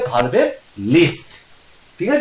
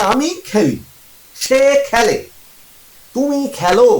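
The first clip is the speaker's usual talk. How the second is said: "খেলি", "খেলে", "খেলো" set apart one by one, raised; contrasted verb endings; 5 semitones higher than usual. Shown as a demonstration. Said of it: "উচ্চারণগুলো পাল্টে পাল্টে যাচ্ছে". ("খেলি", "খেলে", "খেলো" আলাদা করে, উঁচু স্বরে)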